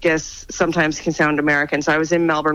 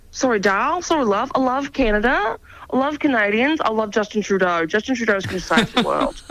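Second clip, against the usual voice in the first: imitated apologetic gusher; 4 semitones higher than usual. Imitating abashed stranger turning gushingly friendly.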